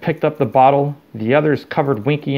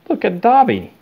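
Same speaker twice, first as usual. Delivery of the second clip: higher, louder pointed appeal; insistent; 9 semitones higher, 4 dB louder than usual. A narrator's reading. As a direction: jab the example home. Hermione lecturing the elves.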